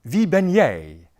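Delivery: Wie ben jij said slowly with stress on wie; slow clear model of Wie ben jij; slow teacher demo. Shown as a demonstration. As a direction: lay out the new phrase slowly. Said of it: "and the last one".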